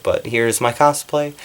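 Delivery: slight lisp through fake teeth. Real, not acted. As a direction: talk with a lisp round the teeth. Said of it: "sorry I'm lisping".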